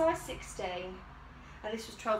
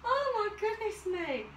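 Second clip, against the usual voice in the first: exasperated; 9 semitones higher, slower than usual. Real, not acted. After hard struggle.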